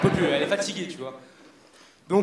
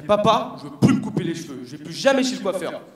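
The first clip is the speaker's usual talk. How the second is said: whiny shout; 4 dB louder than usual. Retold or imitated. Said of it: "j'ai fait".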